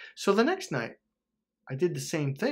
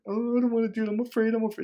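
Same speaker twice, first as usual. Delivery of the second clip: higher-pitched frightened pleading; mock terrified; 8 semitones higher, faster than usual. First-time skydiver balking at the open door, mock terrified. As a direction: act out a scared first-timer balking. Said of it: "you're terrified".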